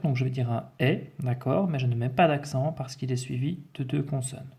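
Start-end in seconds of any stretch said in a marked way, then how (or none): 0.8-1.1 "est" as an open è; open-vowel "est", like è. Shown as a demonstration. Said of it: "E ouvert".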